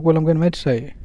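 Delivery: said as if it's obvious; a casual, self-evident "of course"; matter-of-fact. Shown as a demonstration. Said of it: "Say it like that".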